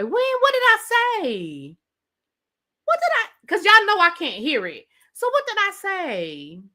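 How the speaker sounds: high-pitched, incredulous questioning; surprised. Real, not acted. Startled by remark on her accent.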